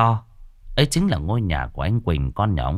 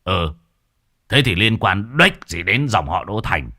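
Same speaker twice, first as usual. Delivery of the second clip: aggressive. Acted. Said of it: "Lão Toét hùng hổ".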